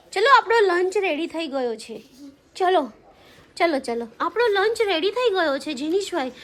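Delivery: a hint of prim, proper Gujarati; lightly mocking formal standard Gujarati; posh clean Gujarati. Shown as a demonstration. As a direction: put on a refined city Gujarati. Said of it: "એકદમ ચોખ્ખું ગુજરાતી બોલીશું".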